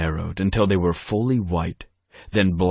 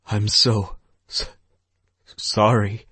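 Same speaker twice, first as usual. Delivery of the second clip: sobbing; 3 semitones higher than usual. A narrator's reading. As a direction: voice breaking on the apology, a touch higher. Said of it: "Stephanie sobbed".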